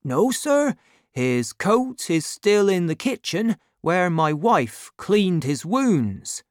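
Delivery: high-pitched, deferential innkeeper; innkeeper character. Acted. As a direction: answer a gentleman as the humble innkeeper. Voices the innkeeper answering.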